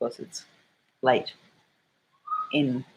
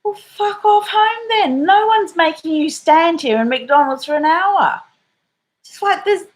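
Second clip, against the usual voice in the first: imitating daughter; 13 semitones higher, 4 dB louder than usual. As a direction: snap back high and mocking. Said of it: "my daughter's like".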